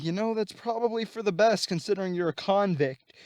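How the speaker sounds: lightly voiced condescending retort; Norman. Voicing Norman needling Electro.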